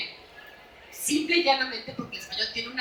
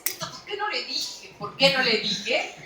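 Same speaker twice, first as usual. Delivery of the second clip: 1 inner regret; 3 semitones higher than usual. Pretend. Imagined regret after an argument.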